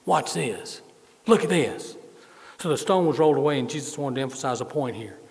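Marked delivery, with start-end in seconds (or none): 0.0-2.0 put-on good old Southern twang; drawn-out Southern "watch this". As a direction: play it with a folksy Southern twang. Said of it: "give Jesus a good old southern twang".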